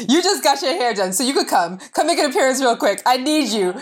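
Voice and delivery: ordinary delivery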